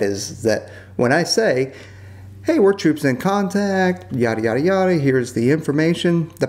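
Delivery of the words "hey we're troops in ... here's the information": calm radio call. Retold or imitated. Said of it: "he seems really calm".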